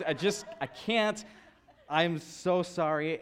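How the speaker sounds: high, loud, drawn-out refusal; mock panicked apology. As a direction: imitate a wife backing out, slow and loud. Wife panicking before the ride.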